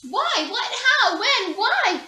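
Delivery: high, loud rapid-fire questions; excited child. A narrator's reading. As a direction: pelt them with questions like a toddler.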